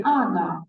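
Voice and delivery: она said as ana, the o reduced to ah; Russian она. Shown as a demonstration. Teacher repeating the correct form for a student. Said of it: "we say она".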